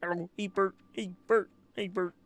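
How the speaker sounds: high, silly greeting voice; playful high greetings. Pretend. Trying out greetings on the new alias Bert, playful high voice. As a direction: pipe up with high little hellos.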